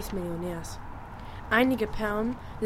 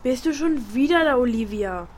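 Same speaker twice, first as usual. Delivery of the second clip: annoyed; 3 semitones higher, 4 dB louder than usual. Acted. Girl to intruding big sister, loudly annoyed. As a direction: snap at her to stay out.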